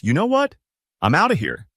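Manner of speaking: the panicking brain giving up and leaving; brain bailing out. Pretend. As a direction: jump high on know what, then a dismissive exit. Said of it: "your brain just says".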